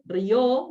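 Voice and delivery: "rió" as one syllable, weight on the O; stress on final O. Shown as a demonstration. Teacher citing the verb reír, stressed on the final O. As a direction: say "rió" as ryOH, punching the final vowel. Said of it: "el verbo reír".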